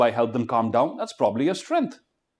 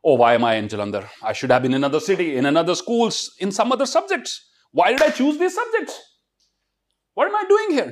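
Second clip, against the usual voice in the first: whiny complaining student; 3 semitones higher than usual. Retold or imitated. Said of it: "not happy with their present".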